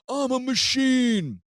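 high, drawn-out mock tough-guy holler; mocking yell. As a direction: jeer it out slowly, mocking his manliness. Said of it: "my brother and I would yell".

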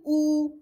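"O" held level as a mistaken "ou"; wrong E, as ou. Shown as a demonstration. Teacher warning learners off a wrong E, level "O" like ou. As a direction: hold "O" evenly as "ou", the error. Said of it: "ماشي".

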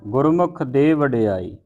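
ਗੁਰਮੁਖ starts a new phrase, falling to the end; fresh phrase after pause. Shown as a demonstration. Teacher showing phrasing, new phrase from ਗੁਰਮੁਖ. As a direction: begin afresh on ਗੁਰਮੁਖ after the rest. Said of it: "ਇੱਥੇ ਵਿਸਰਾਮ ਲਾਉਣਾ ਹੈ".

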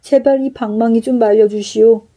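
wailing innkeeper begging for mercy; pained wailing. Acted. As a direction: cry out in pain while pleading. Innkeeper beaten by magic club.

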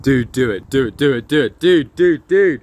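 excited urging. Real, not acted. Urging friend to stab.

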